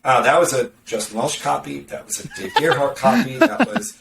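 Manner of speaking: laughing through a mock reaction; laughing quote. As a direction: chuckle while quoting yourself. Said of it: "I read it and I'm like".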